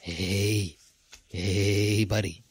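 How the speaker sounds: low coaxing voice of a cursed monocle; sly tempting whisper-like pitch down, drawing the player in; voice in your mind. Acted. The cursed monocle tempts the adventurer, low and coaxing. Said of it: "you hear a voice in your mind saying".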